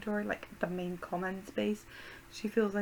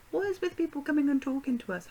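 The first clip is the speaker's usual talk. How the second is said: exasperated; 6 semitones higher, 5 dB louder than usual. Real, not acted. Exasperated complaint.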